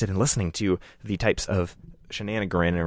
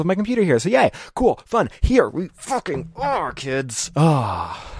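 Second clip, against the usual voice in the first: higher, louder sarcastic yay; sarcastic cheer; 9 semitones higher, 4 dB louder, slower than usual. Real, not acted. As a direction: fake cheer, pitched up high. Sarcastic cheer about lost connection.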